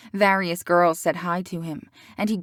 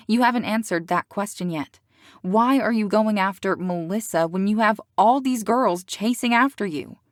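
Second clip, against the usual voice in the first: louder, insistent demand; angry; 3 semitones higher, 4 dB louder than usual. Acted. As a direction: push him for an answer. Celeste presses him angrily.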